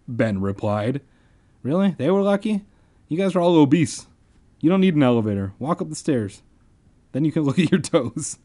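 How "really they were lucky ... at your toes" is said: mocking rant. Real, not acted. Reader mocks characters.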